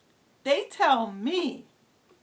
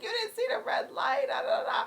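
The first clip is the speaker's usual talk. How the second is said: retold yelling. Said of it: "I'm yelling at him".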